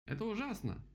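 high-pitched wail of horror. A narrator's reading. Rabbit wails at the flood plan, wailing. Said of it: "завопил кролик".

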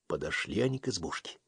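plain reading voice

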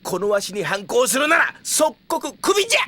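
put-on shouted threat from an old boss; angry threat. Mayor threatens to fire Amber.

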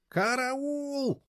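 very high held cry; piercing high scream of alarm; screaming for help. A narrator's reading. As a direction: yell for help at full pitch. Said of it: "заорала она так".

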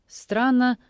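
ordinary delivery

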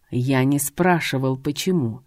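cold and low, cutting in; as coldly as possible; icy cold. Acted. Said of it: "как можно холоднее отозвался он".

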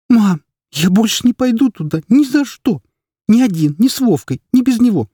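put-on high, loud tearful child's protest; boy crying to his mother that he won't go back. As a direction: wail it through tears like a boy of seven. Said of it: "заплакал он вновь".

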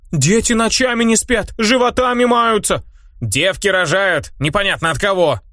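high crone voice reeling off woes, slowly; old crone complaining. Acted. Old woman listing the village's woes, high slow lament. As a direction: wail through the list of misfortunes.

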